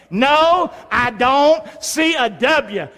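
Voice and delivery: slow, drawn-out line to repeat; call-and-response. Shown as a demonstration. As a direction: lead the congregation word by word. Leading congregation in repeating.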